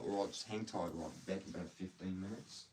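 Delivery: lightly put-on Australian accent; casual Australian accent. Shown as a demonstration. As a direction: say it with an easy Australian twang. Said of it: "when I do an Australian accent".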